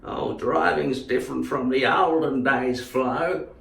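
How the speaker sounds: put-on old man voice. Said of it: "the sort of man that would drive slowly".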